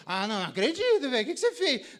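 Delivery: hammed-up husband freaking out; mock alarmed husband. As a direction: play the panicked husband. Husband reacting in meme.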